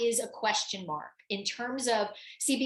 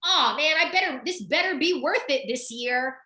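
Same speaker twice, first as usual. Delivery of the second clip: mock irritated groan about the check; grumbling; 5 semitones higher than usual. Grumbling to herself about writing the coach's check. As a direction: grumble like paying is a chore. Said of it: "I'm like".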